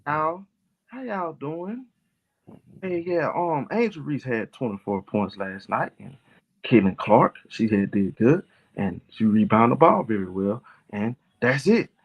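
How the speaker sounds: slow, subdued mock stream host; put-on polite, measured delivery, halting between phrases; mock quiet talk. Shown as a demonstration. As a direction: demonstrate a dull, restrained way of hosting. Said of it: "if you want me to talk quiet".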